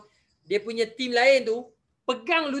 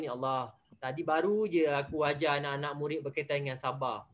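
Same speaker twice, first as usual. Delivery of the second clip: quiet despairing prayer; 8 semitones lower, 6 dB quieter than usual. Retold or imitated. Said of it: "Ustaz pun".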